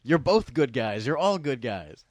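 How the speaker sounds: loud, high, then slowing down; mock exasperated plea. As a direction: plead with the characters on screen. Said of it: "we're going".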